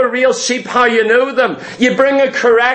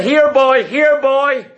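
light coaxing call; calling a dog; 2 semitones higher, slower than usual. Retold or imitated. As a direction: coax the dog over, friendly. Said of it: "And I said".

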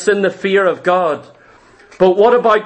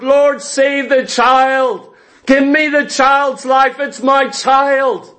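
slow, higher pleading cry with a shout at the end; wailing plea; 3 semitones higher, slower than usual. Retold or imitated. David begging God to spare his dying son, wailing. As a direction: beg God for the child's life, half wailing. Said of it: "He's wailing before the Lord".

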